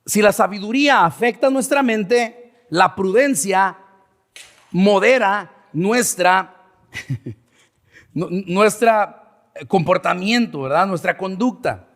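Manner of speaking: slow down on "la prudencia modera nuestra", with pauses; deliberate repetition. Shown as a demonstration. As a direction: repeat it for learners, pausing after "la prudencia" and drawing out "modera nuestra". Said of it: "Ahí va otra vez". (repetición pausada, alargando "modera nuestra")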